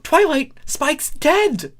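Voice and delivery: high, loud shocked cry; exclaimed. Acted. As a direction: shriek the news. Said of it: "Starlight exclaimed".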